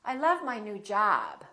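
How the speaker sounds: long "ah" on "job"; prolonged ah. Shown as a demonstration. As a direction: stretch the open vowel in "job". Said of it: "we prolong the ah".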